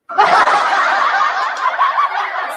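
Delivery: loud high laughter at herself; big laugh. Real, not acted. Vlogger laughing at her own impression, loud laugh.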